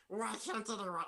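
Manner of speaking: goblin voice, lightly put on. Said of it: "This is my best goblin voice".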